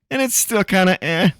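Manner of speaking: mock indifference. Acting out what a C grade means.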